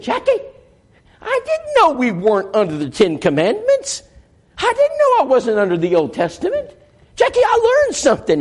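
high, thrilled woman's voice; lightly voiced delighted woman; excited wife. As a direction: squeal it like a big discovery. Sheila's excited discovery voiced.

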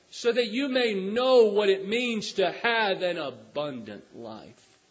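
loud, high, surging sermon; full-force preaching. Real, not acted. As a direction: preach it, calling them forward. Preaching altar call.

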